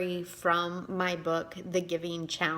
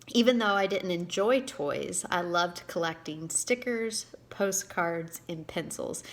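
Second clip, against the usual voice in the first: reading her own book aloud, a touch livelier than her chat; story reading. Acted. Author reading her story to viewers, expressive narration. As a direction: read the story to your viewers with gentle storytelling lift.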